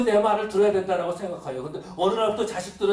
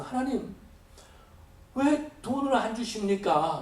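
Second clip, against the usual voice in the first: complaining; 4 semitones higher, slower than usual. Retold or imitated. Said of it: "이렇게 불평할 때가".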